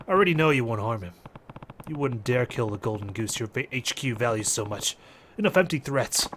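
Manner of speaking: lightly voiced unmoved fighter; defiant fighter. Fighter calling the mobster's bluff, lightly voiced defiance. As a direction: call the bluff without raising your voice.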